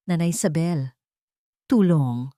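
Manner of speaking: faint, failing cry for help; weak plea for help. Acted. Mother collapsing in labor, faintly begging Nanay Isabel for help. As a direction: call out for help as strength drains away.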